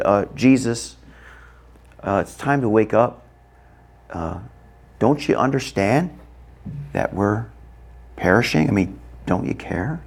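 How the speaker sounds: understated, hesitant request with pauses; politely hedge, in no hurry at all; mild and hesitant. Pretend. Disciples timidly waking Jesus, mild and hesitant. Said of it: "they didn't go up to Jesus and said".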